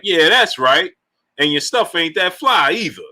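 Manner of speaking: lightly voiced mover's comeback; imitated moving guy. Moving guy answering Martin, lightly imitated. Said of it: "That's what the brother just sound like".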